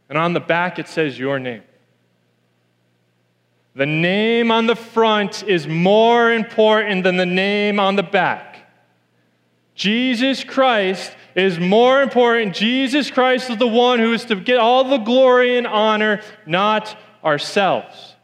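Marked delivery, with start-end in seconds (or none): 3.8-8.7 slow emphasis. Real, not acted. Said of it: "sermon point slowed". 9.8-18.2 preaching emphasis. Real, not acted. Preaching the point.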